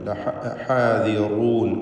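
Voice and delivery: ഹാദിറൂൻ said slowly with a thick റൂ; emphatic റ with tafkheem; heavy ra. Shown as a demonstration. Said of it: "റാ തഫ്ഖീം ചെയ്യണം".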